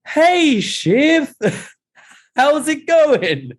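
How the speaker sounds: very high falsetto mock greeting; Tom, awkward greeting. Tom greets Shiv after selling them out, mock-awkward falsetto. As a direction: imitate an awkward hello in squeaky falsetto, laughing midway. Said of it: "Oh, it's so awkward".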